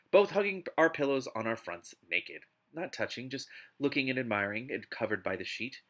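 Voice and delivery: dramatic novel reading; expressive audiobook narration; story narration. Acted. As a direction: read it out like an overwrought romance audiobook. Reads a novel aloud.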